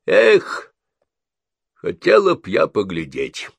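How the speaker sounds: a mild wistful sigh; old woman sighing about the funeral. A narrator's reading. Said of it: "вздохнула миссис Крэбтри".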